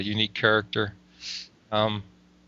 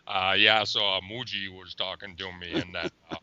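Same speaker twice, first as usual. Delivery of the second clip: low, soft rambling guru voice; Richard Miller voice; 6 semitones lower, 5 dB quieter than usual. Retold or imitated. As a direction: drop low and ramble the name dropping. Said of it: "That's a good imitation".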